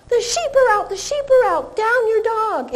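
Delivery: high urgent call, the sheep are out; teacher yelling a fake emergency; mock alarm yell. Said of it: "I would lie and yell".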